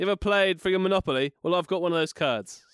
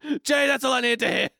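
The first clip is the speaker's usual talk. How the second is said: villain voice; 8 semitones higher than usual. Retold or imitated. Koshi voiced by S1.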